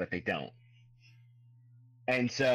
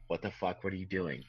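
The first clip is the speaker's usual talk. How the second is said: softer, lower bewildered grunt; a bugbear lost for words, softer and lower; baffled bugbear; 5 semitones lower, 7 dB quieter than usual. Acted. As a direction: mutter it, totally confused. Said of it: "he's like".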